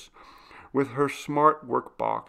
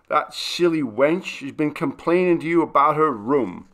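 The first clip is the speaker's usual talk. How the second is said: louder, higher, indignant butler's outburst; indignant exclamation; 5 semitones higher, 8 dB louder than usual. Acted. The butler, indignant at the maid, exclaiming loudly. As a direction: spit it out, offended on his master's behalf. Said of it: "Skegg exclaimed indignantly".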